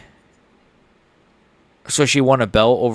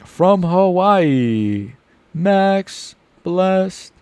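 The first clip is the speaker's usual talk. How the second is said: slow, higher announcer drawl; mock ring announcer; 7 semitones higher, much slower than usual. Streamer playfully introducing Hawaiian fighter, mock announcer.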